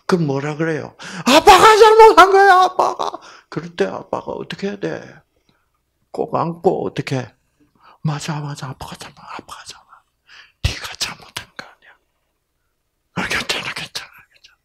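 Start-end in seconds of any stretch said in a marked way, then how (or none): 1.2-3.2 high, loud "아빠가 잘못한 거야" with stress on 잘못한; a father declaring the fault is his; emphatic cry. Retold or imitated. Father takes the blame, loudly. 8.0-14.6 soft whispered soothing; a father whispering comfort into his daughter's ear. Retold or imitated.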